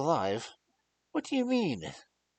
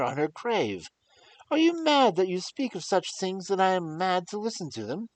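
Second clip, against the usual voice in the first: loud, high, raging defiance; furious protest; 14 semitones higher, 12 dB louder than usual. Acted. Young lord furiously forbids the doctor to touch the grave. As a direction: rage at him with full force. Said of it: "in a storm of passion".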